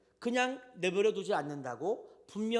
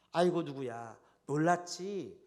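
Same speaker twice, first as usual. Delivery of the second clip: comforting mother. Retold or imitated. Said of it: "하면서 엄마가 이 아이를 안아줍니다".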